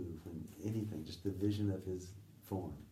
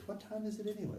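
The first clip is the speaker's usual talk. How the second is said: quoting him; 13 semitones higher, faster than usual. Retold or imitated. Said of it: "suddenly he goes".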